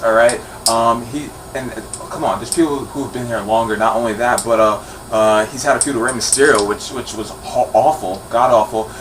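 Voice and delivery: a lightly put-on cranky wrestling fan; grumpy fan rant. Opposing fan rants to the vlog audience, a lightly put-on grumpy voice. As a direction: complain like a fan who feels cheated.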